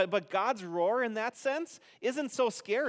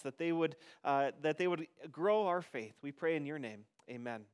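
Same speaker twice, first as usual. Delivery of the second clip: closing prayer; 2 semitones lower than usual. Real, not acted. Pastor closes a prayer.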